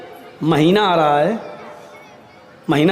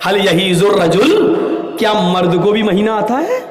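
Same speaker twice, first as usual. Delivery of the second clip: smiling question. Retold or imitated. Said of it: "مسکرا کے کہتا ہے".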